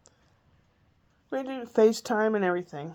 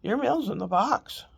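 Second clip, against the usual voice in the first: lightly mimicked robotic mail clerk; 2 semitones higher than usual. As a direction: imitate a blank, robot-like clerk. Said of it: "like he's a robot".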